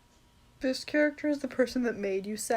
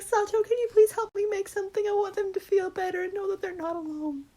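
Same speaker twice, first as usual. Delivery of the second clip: earnest pleading; 7 semitones higher than usual. Acted. Voicing character asking friend's help.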